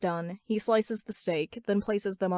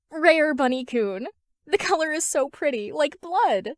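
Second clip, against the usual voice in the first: put-on high gleeful girl; Toga's voice; 7 semitones higher, 5 dB louder than usual. A narrator's reading. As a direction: savor it like a creepy delight. Toga, giddy about blood.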